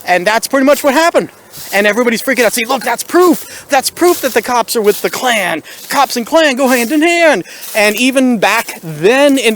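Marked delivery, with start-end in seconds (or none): 2.7-7.4 mock outraged protester.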